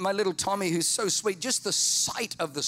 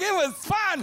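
high, loud brain voice; mock brain shout; brain's voice; 12 semitones higher, 4 dB louder than usual. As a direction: insist it as the brain. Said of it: "Brain's like".

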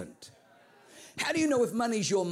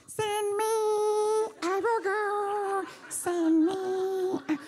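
high, slow, eager squeaky voice of a five dollar bill; much slower than usual. Acted. Five dollar bill begging to go in the offering, high and eager. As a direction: beg to be chosen, high and drawn out.

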